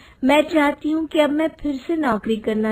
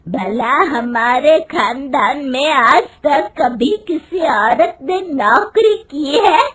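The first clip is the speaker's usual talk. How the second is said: angry rhetorical scolding; 3 semitones higher, 5 dB louder than usual. Acted. Mother-in-law throws family tradition at daughter-in-law, angry. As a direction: hurl the family rule at her. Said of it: "गुस्से में कहती है".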